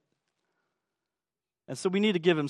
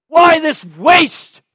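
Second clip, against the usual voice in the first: much higher, louder, slow outraged cry; indignant outburst; 10 semitones higher, 12 dB louder, much slower than usual. Retold or imitated. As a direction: hurl it like a furious disciple. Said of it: "That's indignant".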